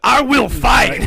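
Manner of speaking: hammed-up heroic shout; mock defiant shout. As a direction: declare it loudly, mock-outraged. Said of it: "gonna put a woman in your robot".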